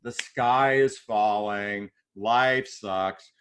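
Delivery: slow, low mopey donkey; a hint of gloomy Eeyore, low and slow. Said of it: "Eeyore is".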